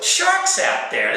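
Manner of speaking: very high, slow dread; high drawn-out alarm; alarmed thought. Retold or imitated. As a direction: stretch out the fear of sharks. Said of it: "I'm thinking to myself".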